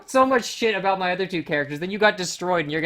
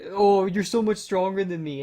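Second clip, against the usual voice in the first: mock simpering praise; 4 semitones higher, slower than usual. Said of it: "he would, like".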